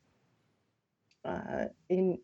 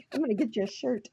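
ordinary talk

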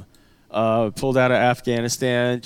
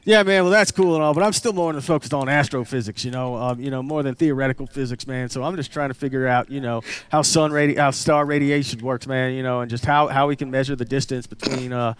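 second redneck chiming in on science; casual redneck twang, earnestly talking astrophysics. Acted. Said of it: "doing the redneck voice".

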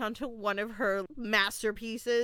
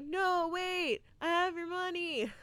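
mock calling out; 8 semitones higher than usual. The dude calling after departing ransom people, mock calling out. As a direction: imitate a high desperate call after someone.

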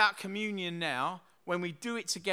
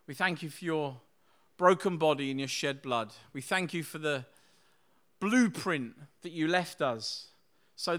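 prayer; 2 semitones lower than usual. Acted. Pastor praying over communion with his church, reverent prayer.

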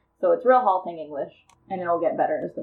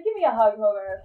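creepy villain voice; 3 semitones higher, 3 dB louder than usual. Acted. Acting creepy Mansley hugging Hogarth.

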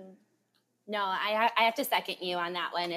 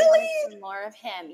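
eager; 3 dB louder, faster than usual. Real, not acted. Excited wish for more of a character.

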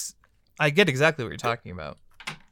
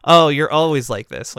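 slow, loud, mocking "always like this"; drawn-out condescending brush-off; dismissive; 7 dB louder, slower than usual. Quoting a dismissive comment.

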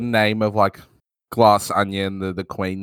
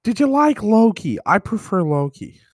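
easygoing light Owen Wilson; Owen Wilson impression; 4 semitones higher than usual. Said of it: "is that Owen Wilson?".

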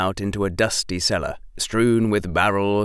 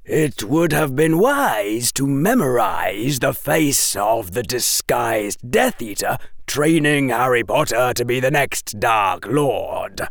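dry; 4 semitones higher than usual. A narrator's reading. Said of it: "the man said dryly".

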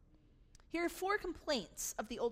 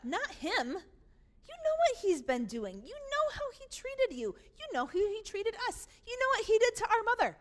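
building to high, loud accusation; aggrieved, heated tirade; indignant outburst; 8 semitones higher, 6 dB louder than usual. Acted. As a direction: rail at your father, climbing in pitch and volume. Older brother rages at his father.

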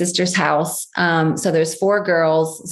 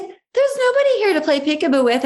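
uneasy mother; 9 semitones higher than usual. Retold or imitated.

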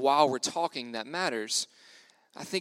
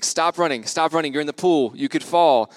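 raised voice, urgent camp-volunteer warning; calling out warning; 6 dB louder than usual. Retold or imitated. Camp volunteer to kids running by the pool, calling out a warning. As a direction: call out loudly to reckless kids.

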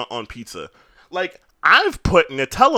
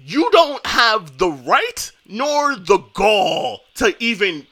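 outraged. Real, not acted. Outraged defense of Mister Softee.

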